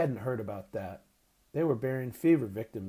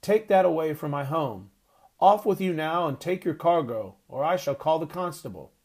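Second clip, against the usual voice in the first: loud, higher angry orders; furious grandfather ordering a man away; angry shouting; 5 semitones higher, 6 dB louder than usual. A narrator's reading. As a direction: drive him off with threats. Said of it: "he shouted".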